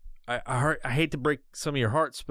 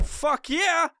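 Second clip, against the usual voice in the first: high, mocking fuck yeah; mock eager yes; 13 semitones higher than usual. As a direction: cheer it like a dopey sellout. Celebrity taking the bribe.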